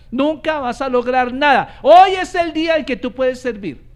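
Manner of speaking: high, loud, driving pulpit delivery; full-force preaching. Acted. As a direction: preach it out to the congregation with growing fire.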